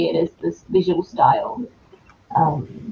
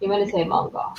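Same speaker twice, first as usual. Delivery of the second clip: high, softer, whispered tease; teasing whisper; 11 semitones higher, 7 dB quieter than usual. Pretend. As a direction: whisper it playfully, much softer. Teasing repeat, dropped to whisper.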